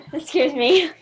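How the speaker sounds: laughing. Real, not acted. Laughing after a scary noise.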